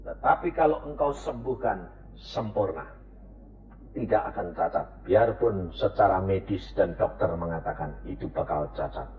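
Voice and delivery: low, soft surrender; quiet trusting prayer. Acted. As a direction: whisper your faith to God. Prayer ends in quiet faith.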